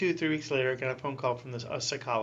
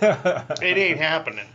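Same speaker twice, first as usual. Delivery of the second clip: drawn-out emphatic refusal; 2 semitones higher, 9 dB louder, much slower than usual. Retold or imitated. Protesting to God.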